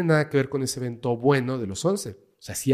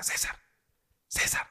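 hushed calling; 9 dB quieter than usual. Retold or imitated. Whispering while poking his face.

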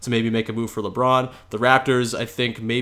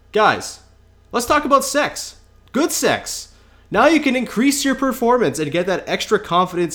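ad read; 3 semitones higher than usual. Acted. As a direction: sell it like a radio ad. Host reads sponsor ad.

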